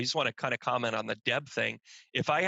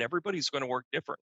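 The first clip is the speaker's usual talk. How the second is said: "Everybody's gonna work different" rattled off quickly; fast, casual "Everybody's gonna work different"; quick statement; 2 semitones higher, much faster than usual. Real, not acted. First take, said in passing.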